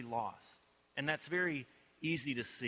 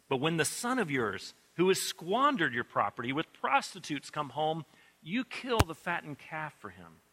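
bitter complaint; 2 semitones higher, 3 dB louder than usual. Acted. Older brother's bitter complaint.

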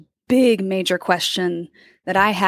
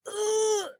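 retold groan; 13 semitones higher, 8 dB quieter than usual. Reacting to a hard question.

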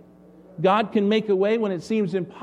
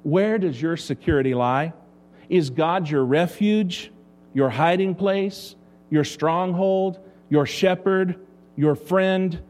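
slow reading; slower than usual. Retold or imitated. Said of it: "Elizabeth Elliot, the missionary, said this".

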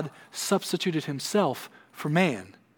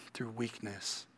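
much softer echo of "Through weakness"; 4 semitones lower, 14 dB quieter, slower than usual. Acted. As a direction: let "Through weakness" drop to a near hush. Preacher echoes phrase softly.

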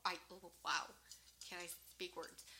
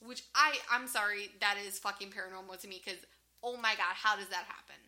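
exasperated disbelief; 6 dB louder than usual. Real, not acted. Exasperated over the paranormal door.

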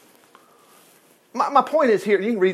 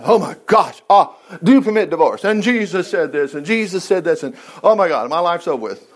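mock panic. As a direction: ham up the fret of a worried churchgoer. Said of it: "So all this about".

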